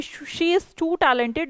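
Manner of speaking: drawn out, word by word as a warning; slow wrong example. Shown as a demonstration. Teacher slowly shows students the wrong compliment. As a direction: show the mistake slowly. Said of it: "इसका मतलब आप कह रहे हैं कि".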